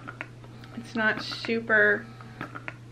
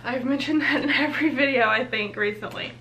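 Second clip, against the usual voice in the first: laughing. Real, not acted. Laughing at her own repetition.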